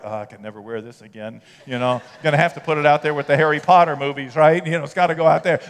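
a worried believer muttering to himself; a lightly voiced anxious congregant; alarmed churchgoer. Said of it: "Some of you are like".

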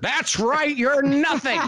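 put-on high, slow, grand old studio big shot; Sam Raimi's old-timey director voice. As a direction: lord it over them like a pompous old Hollywood director. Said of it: "old-timey Hollywood director voice".

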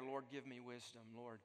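soft, hushed plea to God; preacher voicing a whispered-down prayer, softly; quiet prayer. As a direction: pray it under your breath, humbly. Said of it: "that brief prayer".

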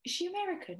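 high-pitched, amazed retold question; incredulous question. Retold astonished question to friend.

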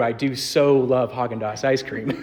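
laughing through the words; laughing admission. Real, not acted. Pastor confessing his love of ice cream, laughing. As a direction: let a laugh break in. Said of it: "admits loving ice cream".

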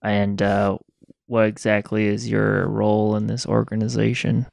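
put-on slow, drawn-out Southern accent. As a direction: ask it like a slow Southern drifter. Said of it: "I don't know why I'm so southern right now".

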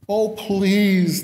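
high, loud begging; begging students. Retold or imitated. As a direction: plead with a whine. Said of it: "they begged".

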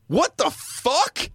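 slow, high stunned what the fuck; stunned disbelief. Retold or imitated. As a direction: drag it out in high shock. Retold driver's shock.

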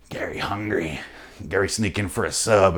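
a lurker hissing from inside the wall; hushed, menacing wall dweller; Gary Busey. Retold or imitated. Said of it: "that motherfucker's Gary Busey".

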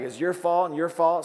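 a hammed-up accusing jerk; mock blaming jerk. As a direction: play the jerk passing blame around. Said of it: "Jerks blame everybody else".

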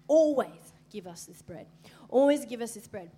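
loud pleading crowd voice; loud begging. Retold or imitated. Preacher voicing the crowd begging Jesus. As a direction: beg for the bread loudly.

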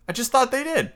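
put-on high-pitched, eager boy; high, delighted outburst; excited interruption. A narrator's reading. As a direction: break in like an excited child. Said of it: "Curly broke in excitedly".

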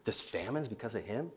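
soft hushed gossip among the crowd; whispering crowd. Retold or imitated. People in the crowd whispering about the prophet, hushed. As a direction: lean in and murmur it low.

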